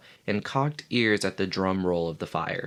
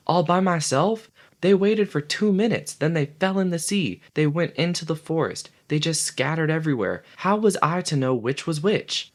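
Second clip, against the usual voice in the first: much higher, louder indignant protest; 9 semitones higher, 3 dB louder than usual. Acted. Piggy protests to Ralph, high and indignant. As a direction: plead the unfairness of it. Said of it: "cried Piggy indignantly".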